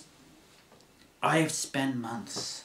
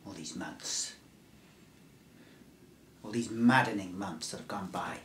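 hushed whisper on maddening months; whispered take; 5 semitones lower, 6 dB quieter than usual. Shown as a demonstration. Survivor whispering his first take to the stranger. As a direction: breathe the line as a secret. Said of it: "I'll do that again".

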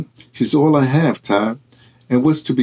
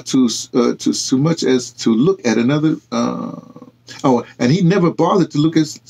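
quiet pride; 3 semitones higher than usual. Acted. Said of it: "Ty Renee said quietly".

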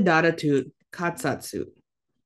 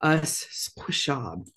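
sounding out words; slower than usual. Shown as a demonstration. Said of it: "sound out the word".

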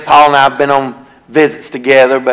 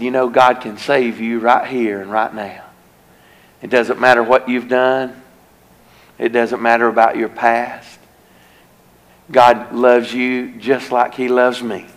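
tender plea; 4 dB quieter than usual. Retold or imitated. Preacher gently pleading with the weeping man to accept forgiveness, soft and tender. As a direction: gently urge him toward forgiveness.

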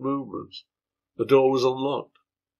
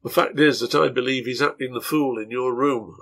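blunt. Acted. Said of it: "I answered bluntly".

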